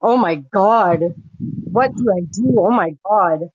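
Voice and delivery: imitating a shocked, stuttering woman. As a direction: stall and restart on "oh God" as if in shock. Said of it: "she started stuttering and".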